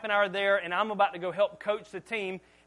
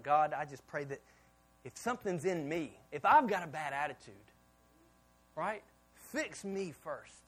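quiet prayer; 3 semitones lower, 3 dB quieter than usual. Retold or imitated. Retold prayer for own heart.

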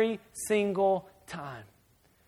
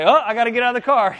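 exasperated dad; 3 semitones higher, 5 dB louder, faster than usual. Retold or imitated. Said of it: "And I say".

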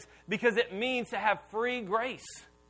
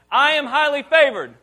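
louder-than-talk, higher, emphatic declaration; like you mean it; 4 semitones higher, 10 dB louder than usual. Shown as a demonstration. Preacher urges congregation to repeat with conviction, emphatic high declaration. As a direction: belt it out with full conviction. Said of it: "You didn't say it like you mean it".

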